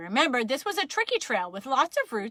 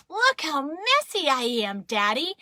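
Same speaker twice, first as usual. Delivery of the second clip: raised, slow, drawn-out boast; proud child; 5 semitones higher, 4 dB louder than usual. Acted. Child shows Daddy messy hands, proud and excited. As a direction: show off loudly with delight. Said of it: "held up my hands and said".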